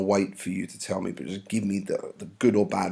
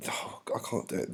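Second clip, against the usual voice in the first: muttered aside; 9 dB quieter than usual. Real, not acted. Muttered aside mid-reading.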